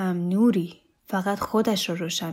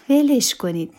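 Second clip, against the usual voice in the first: higher, louder protest; raised-voice protest; 5 semitones higher, 6 dB louder than usual. A narrator's reading. Shirin telling guests to let him be, protesting. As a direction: tell them off in a raised voice.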